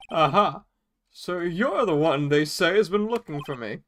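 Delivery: put-on pompous old attorney greeting a visitor; Grossberg voice. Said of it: "what did I do for Grossberg's voice".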